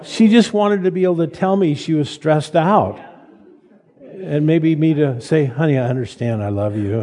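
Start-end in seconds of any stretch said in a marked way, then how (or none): 5.5-7.0 softer, lower loving husband; tender reassurance. Retold or imitated. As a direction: ease it out gently, the way she needed it. What the wife wanted to hear.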